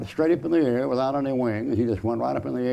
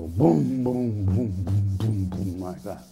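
thunder booms; 3 semitones lower, slower than usual. Retold or imitated. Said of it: "I'd hear a big thunder".

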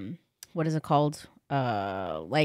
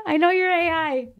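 high, put-on call-out; mock accusation; 12 semitones higher, 3 dB louder than usual. To a caller on the side of the road, high mock accusation. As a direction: pitch it way up, jokingly accusing.

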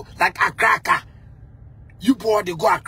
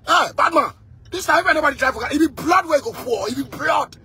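bad man threat; 5 semitones higher than usual. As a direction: bark the warning like a street tough. Quoted threat to enemies.

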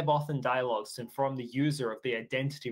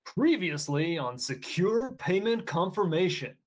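slow, dramatic TV recap announcer; cartoon intro announcer; 3 semitones higher, slower than usual. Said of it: "in my best cartoon announcer voice".

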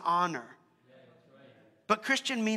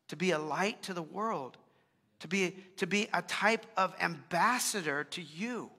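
spoken prayer. Acted. Pastor praying over the congregation, earnest and calm. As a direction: pray sincerely for the church, unhurried.

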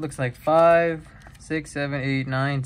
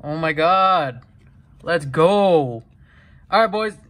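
excited cheer; 2 semitones higher, 6 dB louder, slower than usual. Real, not acted. Celebrating a rare card pull.

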